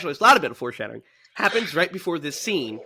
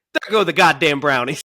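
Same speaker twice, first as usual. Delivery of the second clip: dejected quote; 5 dB louder than usual. Retold or imitated. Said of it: "the plate and saying".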